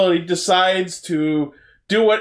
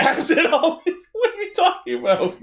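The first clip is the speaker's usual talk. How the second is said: silly high voice; 11 semitones higher than usual. Pretend. Mocking catchphrase in silly voice.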